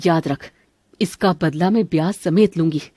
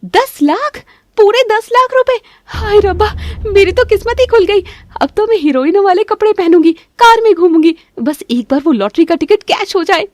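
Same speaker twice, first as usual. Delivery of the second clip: very high, loud squeals of joy; overjoyed shouting; 12 semitones higher, 5 dB louder than usual. Acted. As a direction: scream with lottery delight. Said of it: "जोर-जोर से बात कर रही है". (बहुत ऊँची आवाज़ में ख़ुशी से चिल्लाना)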